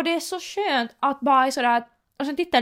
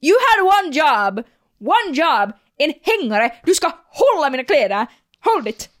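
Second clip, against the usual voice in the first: mock scolding hanger; 4 dB louder than usual. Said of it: "man bara".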